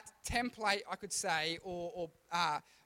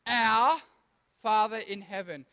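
group recital; 7 dB louder, slower than usual. Shown as a demonstration. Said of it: "Can everyone start it?".

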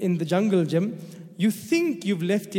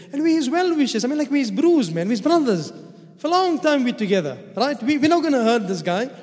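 eager reassurance; 5 semitones higher than usual. Retold or imitated. Brothers reassuring their father.

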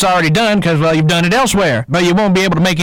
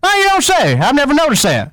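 higher, mock-innocent guard; Willie the guard voice; 6 semitones higher than usual. D A switching to Willie's voice, higher and innocent. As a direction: act surprised as a different man. One actor playing Willie.

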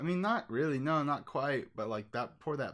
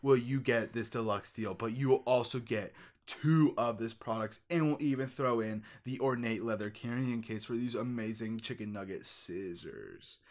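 infomercial. Pretend. Pitchman offer.

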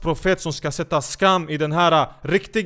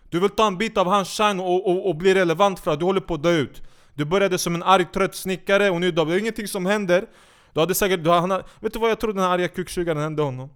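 normal talking voice

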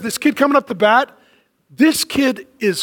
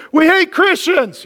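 higher, drawn-out mock taunt; mock hostility; 5 semitones higher, slower than usual. Coworkers at work taunting a believer, mock hostile. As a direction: jeer it slowly, pitched up.

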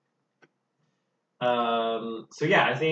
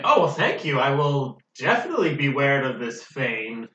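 character voice; 2 semitones higher, 4 dB louder than usual. Acted.

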